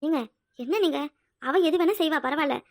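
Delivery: loud, insistent; heated argument. Acted. Wife arguing heatedly with husband. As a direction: argue the point firmly.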